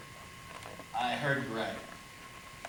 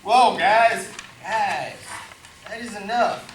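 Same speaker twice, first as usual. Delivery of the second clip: loud, higher call to stop the fight; 4 semitones higher, 7 dB louder, slower than usual. Acted. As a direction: break them apart. Woody breaks up the fight.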